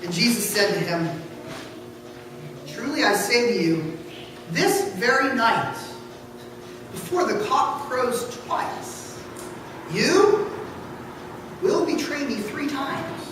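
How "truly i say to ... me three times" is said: hushed. Acted. Jesus foretells Peter's denial.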